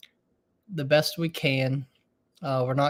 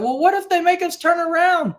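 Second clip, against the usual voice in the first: imitating worried Lissa; 11 semitones higher, 3 dB louder than usual. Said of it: "Lissa's like".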